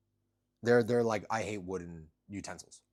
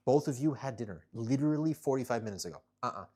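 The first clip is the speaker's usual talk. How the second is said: loud, exasperated scolding; scolding the cats; 5 semitones higher, 7 dB louder than usual. Real, not acted. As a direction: firmly remind the pets they ate.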